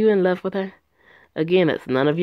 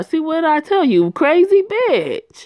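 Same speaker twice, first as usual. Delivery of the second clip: spiteful taunt; 9 semitones higher, 5 dB louder than usual. Acted. Scorned ex taunting Alex.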